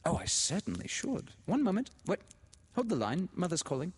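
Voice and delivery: put-on high, gushing society-girl voice; bubbly, delighted telephone talk; excited phone chatter. A narrator's reading. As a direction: greet a dear friend in a loud, high gush.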